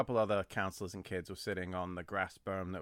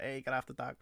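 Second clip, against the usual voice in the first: imitating Artie; 4 semitones higher, 4 dB quieter than usual. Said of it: "I can't do this part in his accent".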